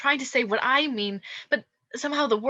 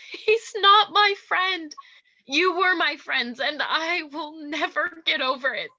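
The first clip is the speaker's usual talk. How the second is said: tearful protest; 5 semitones higher, 4 dB louder than usual. Acted. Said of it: "don't cry".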